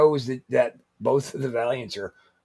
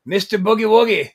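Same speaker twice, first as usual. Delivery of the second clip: higher, louder ring-name call; ring-name announcement; 6 semitones higher, 7 dB louder than usual. Retold or imitated. Recalling his first big opponent, mock ring-announcer call. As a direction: punch the name up high and loud.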